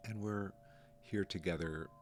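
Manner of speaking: calm, unhurried meditation guide, pausing between phrases; lightly softened guiding voice, leaving room to breathe; guided meditation. Real, not acted. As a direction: gently guide listeners through noticing the breath.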